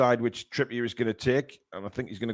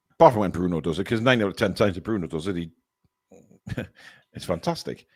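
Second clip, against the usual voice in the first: hiccuping between words; talking through hiccups; 6 semitones lower than usual. Real, not acted. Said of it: "I've developed the hiccups".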